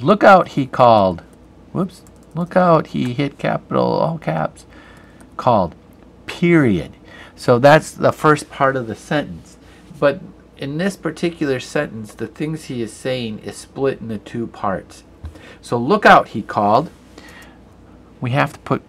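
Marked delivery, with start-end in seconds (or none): 0.0-0.5 loud, high warning shout; a teacher acting out a shouted warning. Shown as a demonstration. 2.3-2.9 warning call. Shown as a demonstration. Teacher rereads the warning. 15.8-16.3 warning call. Shown as a demonstration. Teacher rereads the warning.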